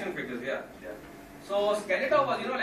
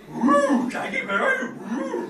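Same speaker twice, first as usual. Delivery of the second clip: much higher, louder cartoon dog whine; Scooby-Doo voice; 9 dB louder, slower than usual. Scooby-Doo calls for Shaggy in high dog voice. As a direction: howl it like a scared cartoon dog. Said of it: "all Scooby-Doo said was this".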